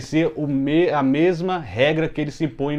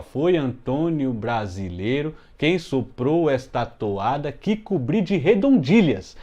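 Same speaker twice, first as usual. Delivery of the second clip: reading aloud; slower than usual. Shown as a demonstration. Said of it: "porque, ó".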